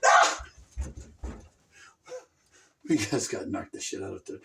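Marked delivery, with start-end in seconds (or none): 0.0-1.0 loud cry of dismay; real dismay; anguished no. Real, not acted. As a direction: shout it as it all goes wrong. Gaming loss.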